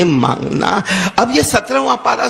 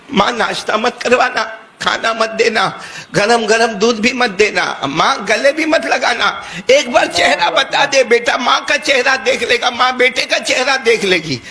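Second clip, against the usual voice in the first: pleading son; 4 semitones higher than usual. Acted. Son begs to see mother.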